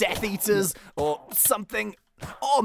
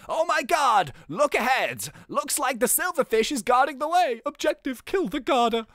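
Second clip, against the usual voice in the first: higher-pitched game character announcement; lightly hammed-up alarm; 5 semitones higher than usual. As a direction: raise the alarm in mock urgency. Reads game's alarm in character.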